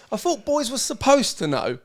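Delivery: amused imitation of a tipsy friend; laughing quote. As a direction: laugh as you quote her. Quoting drunk friend, laughing.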